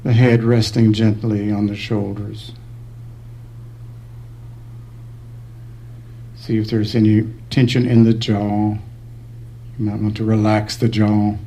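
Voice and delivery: unhurried meditation guidance with long pauses; calm, spacious meditation voice; guided meditation. Real, not acted. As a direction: guide them gently through the body, leaving space between phrases.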